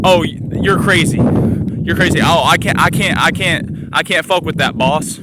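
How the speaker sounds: mocking rednecks. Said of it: "These country-ass rednecks ... saying some shit like that".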